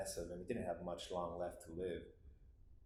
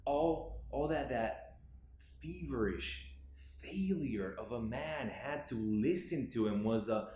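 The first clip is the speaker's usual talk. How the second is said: higher, emotional swell with drawn-out words; anguished; 5 semitones higher than usual. Acted. Grieving child recalls listening to dying father, anguished. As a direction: let the hurt lift the voice. Monologue on watching father die.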